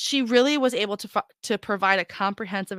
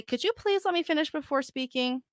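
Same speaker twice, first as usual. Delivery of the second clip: polite request; 7 semitones higher, 5 dB quieter than usual. Shown as a demonstration. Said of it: "you could say".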